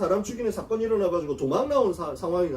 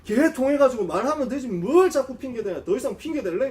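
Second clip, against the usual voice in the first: exasperated retold scolding, pitched up midway; imitating angry God; 3 semitones higher than usual. God scolding Moses for excuses, mock exasperated. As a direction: act out a fed-up rebuke. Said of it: "열받아가지고 화를 내시면서".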